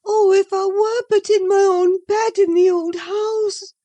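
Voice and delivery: high, loud, aching cry for home; bitter longing. A narrator's reading. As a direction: wish it with bitter yearning. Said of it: "she went on bitterly".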